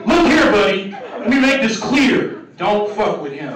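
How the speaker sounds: a hint of a slow, stern white guy; white dude confronting. White guy starting a confrontation, mild slow stern voice. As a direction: lightly act a white guy squaring up. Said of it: "y'all confrontation words".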